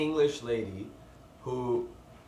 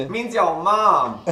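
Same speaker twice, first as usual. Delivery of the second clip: slow laughing line; 6 semitones higher, 9 dB louder, much slower than usual. Retold or imitated. Retelling a local's explanation.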